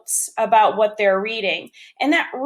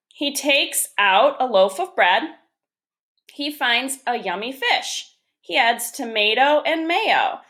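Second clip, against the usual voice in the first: measured storybook reading with lilting phrases; picture-book read-aloud. Acted. Teacher reads Pete the Cat to first graders, storybook read-aloud. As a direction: read it out to young children, pausing between sentences.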